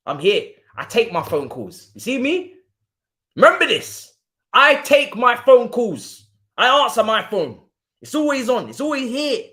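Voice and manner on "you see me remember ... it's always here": louder, emphatic boast; loud taunt. Real, not acted. Fan mocking a rival who ducked his calls, loud.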